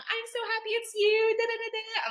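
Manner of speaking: very high, loud wail of joy; mock happy crying. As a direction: wail it like an overjoyed, tearful mother. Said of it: "his mom was literally crying tears of joy".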